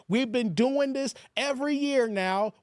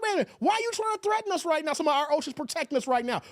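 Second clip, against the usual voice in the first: higher, fast, indignant mock Trump; Trump snapping off; 4 semitones higher, much faster than usual. Streamer imitating Trump snapping at a guest, higher and fast. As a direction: rattle it off like an offended Trump. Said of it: "when Trump's like".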